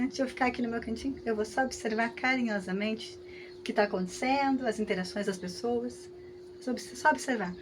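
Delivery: put-on hushed and quick, an inner thought at a kids' party; quiet aside. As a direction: keep it to yourself, half under your breath. Shy guest muttering at kids' party. (murmurando para si, discreto)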